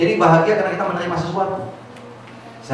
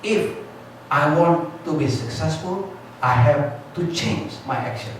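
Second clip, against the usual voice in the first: mock motivator; 3 dB quieter, much slower than usual. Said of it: "motivator mengatakan".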